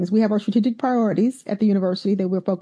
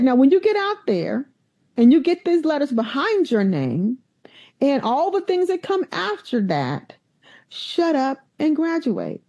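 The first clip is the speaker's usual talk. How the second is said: mentor's advice; 4 semitones higher than usual. Retold or imitated. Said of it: "He said".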